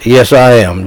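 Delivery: a hint of clipped military sternness; lightly retold stern military reply. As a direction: answer like a soldier to an officer. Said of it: "in a very military fashion, very stern fashion".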